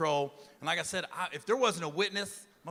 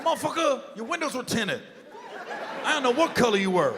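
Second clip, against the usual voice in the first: exasperated retort; 5 semitones higher than usual. Retold or imitated. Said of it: "I go".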